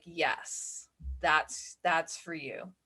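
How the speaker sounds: soft, understated inner voice; small, hushed voice of reassurance; quiet intuition voice. Acted. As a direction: gently offer it, well under the breath. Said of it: "louder than your intuition voice".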